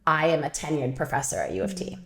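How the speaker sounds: soft, measured professor's declaration, retold; retold calm mentor. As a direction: quietly imitate a composed supervisor. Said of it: "she very nicely and, um, calmly".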